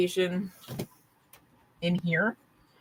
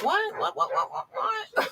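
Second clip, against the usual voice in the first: mock surprise. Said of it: "I'm all like".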